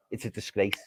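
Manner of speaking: a bitter whisper under the breath; whispered disgrace. Real, not acted. Fan winding down after his rant, whispering. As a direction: let it drop to a whisper.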